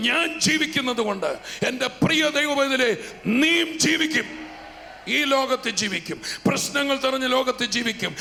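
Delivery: rising, ringing preacher's proclamation; fervent preaching. Acted. Preacher rousing the congregation, building to a fervent proclamation.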